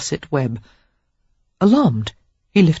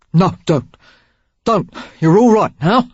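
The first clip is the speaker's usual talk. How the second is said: lightly voiced man, soothing; Derek comforting; 3 semitones higher, 5 dB louder than usual. A narrator's reading. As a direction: hush her gently, a bit louder. Derek soothing crying Sarah.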